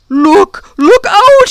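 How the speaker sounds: high, loud alarmed cry; shouted warning. A narrator's reading. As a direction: yell the warning to save them. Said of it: "he shouted".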